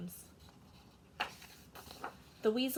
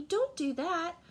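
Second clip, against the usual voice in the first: urgent; 7 semitones higher, 4 dB louder than usual. Acted. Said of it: "cried the old lady".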